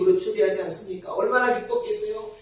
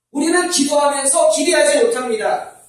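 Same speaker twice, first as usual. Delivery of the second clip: emphatic preaching; 5 semitones higher, 3 dB louder than usual. Shown as a demonstration. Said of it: "sermon emphasis".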